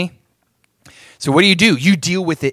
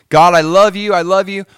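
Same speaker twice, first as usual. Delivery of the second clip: slightly raised, louder devotional outpouring; mock fervent worship; 4 semitones higher, 6 dB louder than usual. Preacher imitating someone mid-worship, mildly hammed-up fervour. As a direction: act out a worshiper pouring out love. Every time you're in worship.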